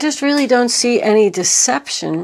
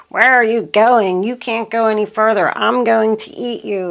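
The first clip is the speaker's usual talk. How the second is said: louder, menacing demon threat opening, then a faster rush; mean demon; 3 dB louder than usual. Retold or imitated. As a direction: loom over the deer like a mean demon. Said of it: "the demon's all mean and says".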